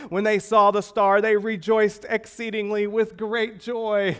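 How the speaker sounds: loud, high, jubilant scripture reading; exultant preacher reading out the verse; joyful. Acted. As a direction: proclaim it with rising joy, high and loud. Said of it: "all of it's just joy".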